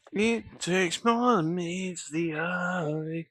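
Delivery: breathy, slow whisper. Acted. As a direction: whisper it slowly, almost secret. Sudden whispered line.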